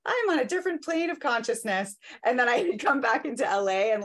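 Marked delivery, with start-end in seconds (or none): 0.1-2.0 high, floaty and dreamy, mock enlightened; blissed-out spiritual voice. Back from Joshua Tree, bragging to friends in a high blissed-out voice. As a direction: play the serene guru fresh back from the desert. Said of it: "I was like".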